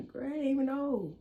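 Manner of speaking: high, loud comeback through laughter; laughing protest. Retold or imitated. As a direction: protest your innocence while cracking up. Laughing comeback to mama's scolding.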